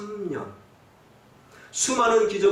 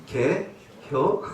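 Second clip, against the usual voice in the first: mock Chungcheong dialect; much slower than usual. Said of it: "충청도 사람 뭐라고".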